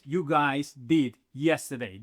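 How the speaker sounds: slow, deliberate model phrase. Shown as a demonstration. Teacher reads the positive form slowly to the class. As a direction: lay out each word slowly. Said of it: "That means".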